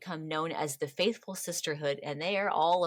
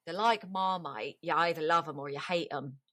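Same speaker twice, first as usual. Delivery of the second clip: bad English accent. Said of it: "that's a really bad accent".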